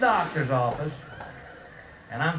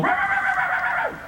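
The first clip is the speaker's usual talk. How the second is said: very high, rapid puppy barks; yapping puppy. Retold or imitated. Puppy sneaking up on a sleeping cat, imitated high yapping. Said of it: "that little puppy would sneak up behind it and go".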